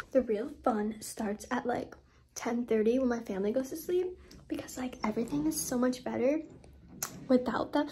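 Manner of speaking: hushed whisper so family won't hear. Real, not acted. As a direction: whisper it, keep it secret. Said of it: "hold on, I have to whisper".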